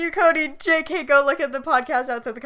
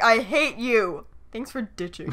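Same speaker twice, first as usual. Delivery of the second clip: slow, low, flat-out serious I hate you; mean it, slow and cold; dead serious; 4 semitones lower, slower than usual. Shown as a demonstration. Showing the serious reading he didn't take. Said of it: "instead of like".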